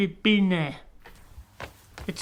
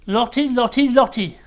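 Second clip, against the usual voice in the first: joyful reunion; 3 semitones higher, 5 dB louder than usual. Acted. Walter overjoyed greeting Lottie.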